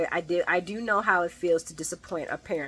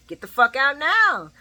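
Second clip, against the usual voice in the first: mock angry order; 5 semitones higher, 4 dB louder than usual. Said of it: "she don't say "fuck out".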